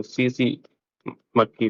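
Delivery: सीसी said with the T silent. Shown as a demonstration. Teacher showing students how to read the fly's name, silent T in सीसी. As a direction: say सीसी with two plain S sounds, no T. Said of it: "टी silent रहता है".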